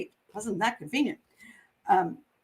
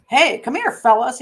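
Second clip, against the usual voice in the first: inviting call; 7 dB louder than usual. Retold or imitated. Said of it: "he invited".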